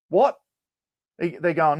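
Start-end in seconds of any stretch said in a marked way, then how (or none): 0.1-0.4 incredulous what. Retold or imitated. Sam shocked at stopping work.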